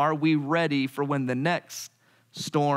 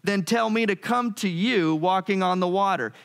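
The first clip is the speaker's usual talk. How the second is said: higher, hesitant challenge; nervous bargaining Peter; 4 semitones higher than usual. Retold or imitated. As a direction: test him, unsure and nervous. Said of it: "So Peter says".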